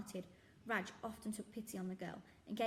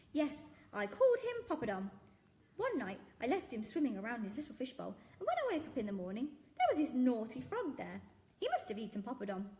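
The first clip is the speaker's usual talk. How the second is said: louder earnest shopkeeper voice; jolly shopkeeper; 3 semitones higher, 6 dB louder than usual. Acted. Shopkeeper recounting Poppadom's fate, loud and earnest. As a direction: tell it with mournful seriousness. Raj's story.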